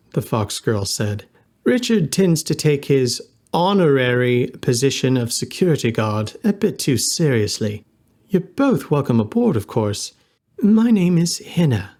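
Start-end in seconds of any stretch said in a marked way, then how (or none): 1.6-11.9 smooth it over sweetly; polite hostess. Acted.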